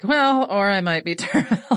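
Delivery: laughing self-mockery; laughing through words. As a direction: joke about yourself and crack up on it. Joking about her own diagnosis.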